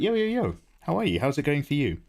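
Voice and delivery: high, bouncy mock greeting; a light take on the cheery hello; imitated cheery greeting. Streamer imitating herself greeting other streamers, high and bouncy. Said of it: "and it's like".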